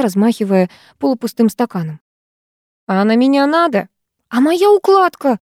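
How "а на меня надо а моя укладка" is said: high-pitched outraged questions; indignant protest. A narrator's reading. Girl defending her hairdo from water, indignant. Squabble over a glass of water.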